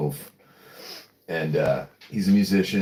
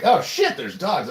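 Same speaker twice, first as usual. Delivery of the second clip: much higher, louder alarm at loose dogs; mock alarmed yelp; 11 semitones higher, 4 dB louder than usual. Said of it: "I'm like".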